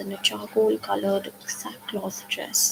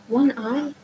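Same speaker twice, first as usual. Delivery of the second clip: incredulous; 5 semitones higher, 4 dB louder than usual. A narrator's reading. Shocked question to Annabeth.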